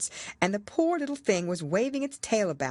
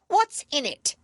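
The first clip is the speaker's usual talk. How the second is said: demanding queen; 11 semitones higher, 5 dB louder than usual. A narrator's reading.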